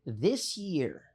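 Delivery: booming announcer hype; monster truck ad. Pretend. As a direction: call it like a monster truck rally ad. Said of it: "Monster truck voice".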